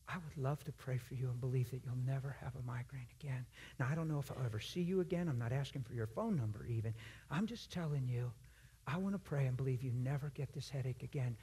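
gently and simply offer to pray; sincere offer. Shown as a demonstration. Believer offering prayer to a migraine sufferer, quietly sincere. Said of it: "just be sincere".

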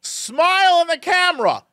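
high, called-out command; dad calling out. Retold or imitated. Dad urging son to smile, high call. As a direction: coax from across the counter. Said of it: "I hear him go".

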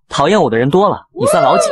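a touch of scorn; disdainful. A narrator's reading. Actress answering a rival who called her annoying, disdainful. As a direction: brush off the rival with mild contempt. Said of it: "不屑说道".

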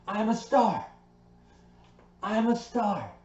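bright proud cheer of I'm a star; pumped-up self-cheer. Shown as a demonstration. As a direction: shout it out like you mean it. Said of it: "I'm gonna say".

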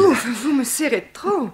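high, drawn-out complaint; theatrical yelp of discomfort; acted protest. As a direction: gasp it as if squeezed too tight. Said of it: "nous en jouer une scène".

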